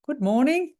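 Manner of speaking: high, loud, pointed greeting to a latecomer; mock a boss calling out lateness; put-on affronted singsong; sarcastic scolding. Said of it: "What I often hear is they go".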